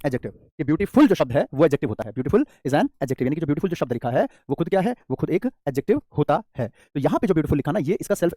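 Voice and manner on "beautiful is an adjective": very slow, each word drawn out; slow dictation. Shown as a demonstration. Teacher repeating the sentence for children, very slow. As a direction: repeat it slowly for copying. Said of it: "teacher repeats dictation".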